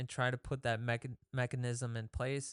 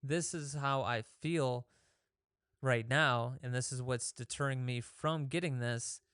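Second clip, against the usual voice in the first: calm self-talk. Retold or imitated. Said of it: "you just calmly look at it".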